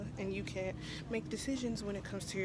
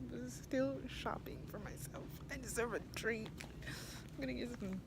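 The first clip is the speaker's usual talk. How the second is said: whispering; 8 dB quieter than usual. Real, not acted. Muttering to herself in Target.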